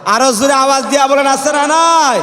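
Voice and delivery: fast, high, loud demand; rousing call. Real, not acted. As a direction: push the congregation to shout back.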